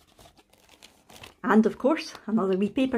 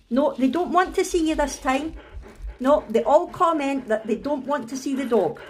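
mock telling-off, pitch slightly raised; teasing; 4 semitones higher than usual. Owner kidding her dog about the viewers, teasing. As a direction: pretend to break bad news to the dog. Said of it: "I'm only kidding".

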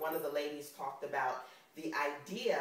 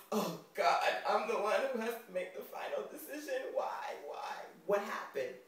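exasperated mom; 5 semitones higher than usual. Retold or imitated. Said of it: "And me going".

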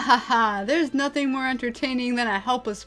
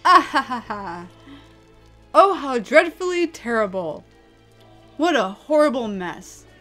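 loud theatrical laugh into mock dismay; gloating villain; 6 dB louder than usual. Villain surveying a horrible mess, gloating loudly. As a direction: relish the disaster with false pity.

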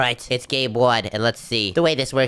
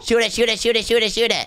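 combat callout; 9 semitones higher than usual. Real, not acted. Urgent fight calls at dragon.

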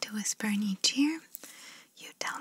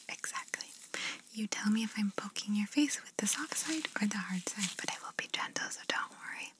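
ASMR whisper. Acted. ASMR artist whispering instructions to the listener. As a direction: breathe the words gently, no voice.

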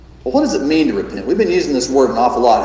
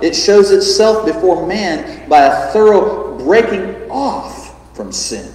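solemn reading; 2 semitones higher than usual. A narrator's reading. Preacher reading J C Ryle's notes aloud, solemnly. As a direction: read with gravity and emphasis. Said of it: "when he says this".

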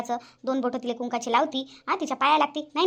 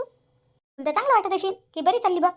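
sarcastic taunt; 5 semitones higher, slower than usual. Acted. Mother-in-law taunts daughter-in-law.

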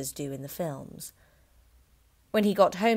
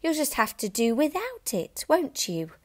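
higher, dismissive wife; wife's voice; 9 semitones higher than usual. A narrator's reading. Wife to husband, dismissive. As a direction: brush him off. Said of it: "his wife told him".

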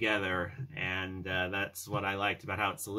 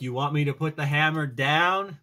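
higher, louder taunting challenge; Thor taunt; 7 semitones higher, 9 dB louder than usual. Retold or imitated. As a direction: bait him with a cocky dare. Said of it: "And he's all like".

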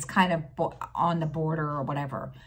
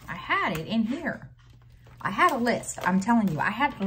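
higher, insistent, hunting for the lost list; a bit higher and pleading; exasperated searching; 6 semitones higher, faster than usual. Real, not acted. Talking to her viewers while searching for her list, exasperated.

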